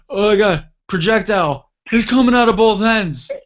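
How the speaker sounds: high, loud mock yell; acted-out desperate holler from the toilet; retold gasping yell. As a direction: yell it high, imitating someone catching breath. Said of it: "I just yell in a gasp".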